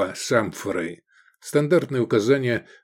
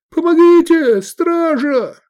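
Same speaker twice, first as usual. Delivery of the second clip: much higher, very loud panicked yell; calling for help; 8 dB louder, slower than usual. Acted. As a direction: scream for the guards. Man beaten, calling for help.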